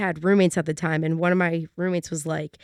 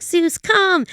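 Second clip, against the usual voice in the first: calling the dog; 9 semitones higher than usual. Retold or imitated.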